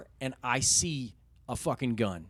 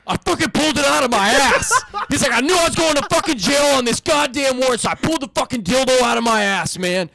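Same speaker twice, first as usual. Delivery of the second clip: high, loud voice through laughter; retelling the confession while laughing hard; laughing impression; 11 semitones higher, 16 dB louder than usual. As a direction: push the suspect's line out high and loud while cracking up. Suspect's confession, teller laughing.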